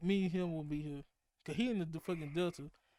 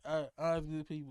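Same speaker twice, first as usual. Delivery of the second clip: mock country accent; 3 semitones lower than usual. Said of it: "it be like".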